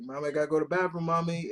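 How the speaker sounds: a hint of a small boy begging; little kid pleading.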